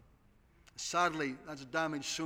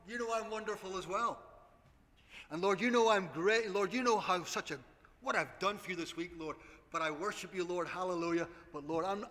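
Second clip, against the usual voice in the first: mock boastful prayer.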